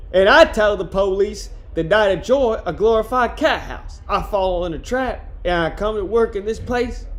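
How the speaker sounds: put-on a loose New Orleans accent for Jones, slipping away as it goes; Jones's New Orleans accent. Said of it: "I lost the accent in that one".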